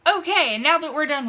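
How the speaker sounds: laughing, relieved okay. Real, not acted. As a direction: bursts out laughing to shake off the mood. Breaking the emotional moment.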